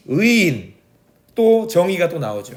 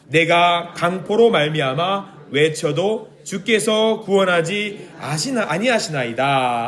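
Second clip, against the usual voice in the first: slow, measured Bible reading; reading scripture aloud to the congregation, slow and solemn; slower than usual. Shown as a demonstration. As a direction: read the verse slowly and gravely. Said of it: "이 절 읽어보겠습니다".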